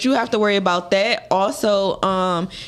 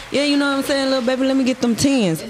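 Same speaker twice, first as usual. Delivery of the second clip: a quick, slightly higher smooth-talker line; smooth Southern guy; 5 semitones higher, faster than usual. Retold or imitated. Texas freshman asking a girl for her number, smooth and quick. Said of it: "I'm sitting there at the door like".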